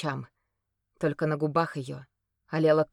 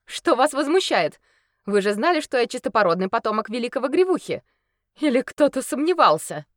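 haughty lady; 7 semitones higher, 6 dB louder than usual. Acted. Haughty lady answers crowd.

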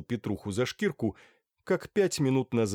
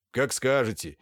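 ordinary delivery, nothing marked

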